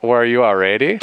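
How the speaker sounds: imitating a vague Asian accent; mock Asian accent. Explaining a mishearing, lightly imitated Asian accent. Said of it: "weird Asian accent".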